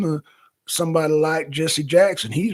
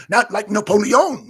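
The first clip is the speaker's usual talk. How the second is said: Napoleon in a higher, louder French accent; mock French accent; 4 semitones higher, 6 dB louder than usual. Shown as a demonstration. Streamer showing why Gambit's accent was too strong, mock French accent. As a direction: put on a strong French accent, NAPOLEON ending in a round "-yohn". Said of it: "It was like France, France accent".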